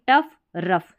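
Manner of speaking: टफ, रफ as a rhyming pair with short "uh"; match the sound of रफ to टफ, both ending in f; matching rhyme. Shown as a demonstration. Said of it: "similar tone की".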